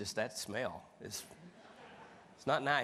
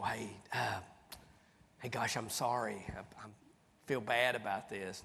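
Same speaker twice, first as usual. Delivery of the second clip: half-whispered, sheepish sorry; hushed apology. Retold or imitated. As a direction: lean in and apologise under your breath.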